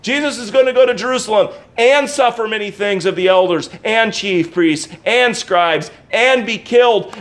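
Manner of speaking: each "and" pressed in the list; stress on every and. Shown as a demonstration. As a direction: give every "and" its own beat. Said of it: "why are you emphasizing that word".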